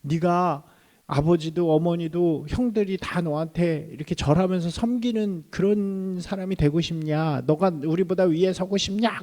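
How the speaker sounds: put-on an older brother snapping at his boastful sibling; a touch of mock anger from the older brothers; angry brothers. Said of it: "막 화를 내기 시작한 거예요".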